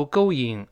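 "going" as go-ying, without a w glide; mispronounced going. Shown as a demonstration. Teacher warns against a wrong reading, going without the w glide. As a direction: say "going" with no w between the vowels. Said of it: "不要读going".

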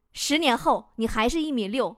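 soft, mock-gentle boyfriend; imitated tenderness. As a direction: deliver it gently and quietly, as a boyfriend. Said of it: "温柔地对我说". (模仿男友温柔轻声地说)

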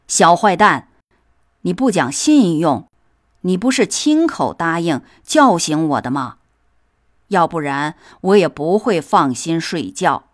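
scold, then bark the final threat; angry shouting. Acted. Cat scolds the mouse for not waking him, building to an angry shout. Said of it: "大声叫嚷".

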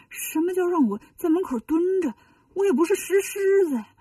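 a wronged monk arguing his dignity; indignant, pitch going up; aggrieved protest. Acted. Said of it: "心里挺委屈".

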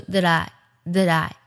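"that I" run together as one smooth sound; linked that I. Shown as a demonstration. Teacher demonstrating the link, "that I" said joined and slow. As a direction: glide "that I" into a single linked unit. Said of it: "连读，读作".

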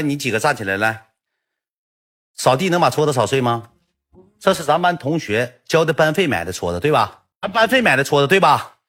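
lightly voiced stern teacher; teacher grilling pupils over the broken dustpan, mildly stern; questioning teacher.

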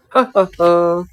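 hearty ha ha ha; laughing. Acted. Picture of lion laughing.

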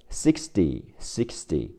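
"sixty" with the t softened toward a d sound; flapped t in sixty. Shown as a demonstration. Teacher modelling listening pronunciation: soft flapped t. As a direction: soften the middle t of "sixty" like a quick d. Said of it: "t会变成的".

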